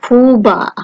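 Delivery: Kuba as koo-ba with a hard k; German Kuba, long oo; German pronunciation. Shown as a demonstration. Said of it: "as in the words".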